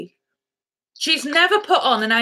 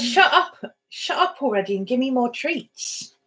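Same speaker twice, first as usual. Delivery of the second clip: dog's voice; 2 semitones higher, 3 dB quieter than usual. Pretend. Owner voicing her dog demanding treats, dog's voice. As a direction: speak for a cheeky, impatient pet. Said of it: "She says".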